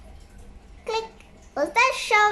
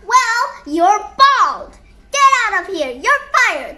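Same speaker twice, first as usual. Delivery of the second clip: acted angry outburst; 5 dB louder than usual. Acted quarrel with boss.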